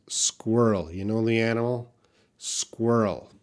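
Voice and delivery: SQUIRREL said carefully as one falling word; careful, separate "Squirrel" for learners; pronunciation demo. Shown as a demonstration. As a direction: model "Squirrel" clearly with R gliding into L. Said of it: "very difficult word for foreigners to pronounce".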